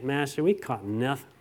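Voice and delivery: low, soft, reluctant reply; mildly weary reluctance; begrudging. Retold or imitated. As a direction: grumble it quietly, as if giving in unwillingly. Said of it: "He begrudgingly said it".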